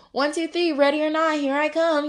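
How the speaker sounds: lightly acted hide-and-seek call; seeker's call.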